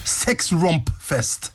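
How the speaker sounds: very slow, each part stretched, falling at the end; slow, drawn-out repeat. Retold or imitated. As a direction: dwell on every part of the word. Repeats the odd word, savouring it. (sakte og utdratt gjentakelse)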